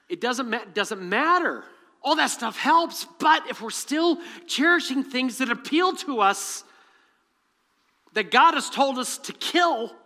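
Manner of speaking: loud, high, building preaching; rising preacher's cry. Real, not acted. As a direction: preach it out with full force. Preaching builds to full force.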